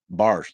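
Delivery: "bears" said as "bars", a light Tennessee vowel; the local "bars" for bears, lightly imitated. Shown as a demonstration. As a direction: say "bars" with a flat Tennessee ar sound. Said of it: "they say bars".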